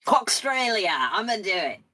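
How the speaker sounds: playful Cockney-Australian blend; Australian-Cockney accent. Pretend. Host committing to the invented accent, Cockney-Australian. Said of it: "Australia and Cockney".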